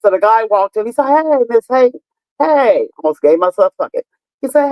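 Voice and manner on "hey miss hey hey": lightly voiced visitor, pitched higher; imitation of a man hailing her; imitated repairman. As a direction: call out a higher-pitched greeting as the repair guy. Acting the repairman's greeting.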